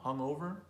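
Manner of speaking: hungover stressed on the "o"; stress on second syllable. Shown as a demonstration. Teacher illustrates the rule, "hungover" stressed on its second syllable. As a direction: say hungover as hung-O-ver. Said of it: "We'll stress the second syllable".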